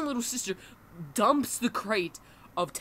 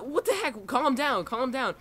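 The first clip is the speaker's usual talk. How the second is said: higher-pitched, insistent imitation of onlookers; mock exasperated urging; 5 semitones higher than usual. Friends telling the panicking girl, imitated exasperated urging. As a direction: urge her to settle, retold with raised pitch.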